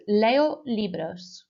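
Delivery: slow, clear repeat-after-me model; slow model phrase. Shown as a demonstration. Teacher slowly modelling Spanish for pupils to repeat. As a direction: spell it out slowly for the class to echo. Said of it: "So after me, please".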